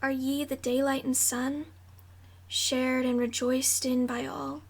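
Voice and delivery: measured, declaimed verse with pauses between phrases; poem recitation. Acted. Reader reciting The Youth of Nature to viewers, measured poem recitation. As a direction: give each line of verse its own weight. Reads a long poem aloud.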